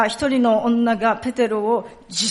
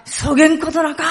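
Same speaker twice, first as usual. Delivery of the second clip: higher, louder Hakata dialect denial; 5 semitones higher, 6 dB louder than usual. Shown as a demonstration. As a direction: protest emphatically in Hakata dialect. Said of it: "博多弁だったら". (博多弁で強く否定)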